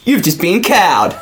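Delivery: slow, laughing catchphrase; slow laughing prank line. Pretend. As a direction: drag it out while laughing.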